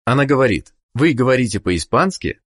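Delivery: usual speaking voice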